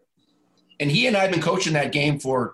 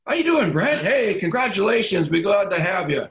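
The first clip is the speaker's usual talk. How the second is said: mock cheerful greeting; 4 semitones higher than usual. Retold first call, greeting Brett.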